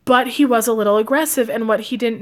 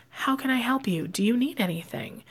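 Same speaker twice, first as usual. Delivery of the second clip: much softer, gentle shop greeting; soft-spoken; 8 dB quieter than usual. Retold or imitated. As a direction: ask shy customers gently, almost under your breath. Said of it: "And I would speak very soft".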